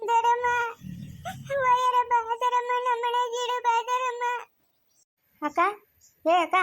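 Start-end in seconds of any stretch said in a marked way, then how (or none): 0.1-4.2 slow, sobbing calls of her name; crying calls. Acted. Girl crying after the aunt who has gone. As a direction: call her back, weeping.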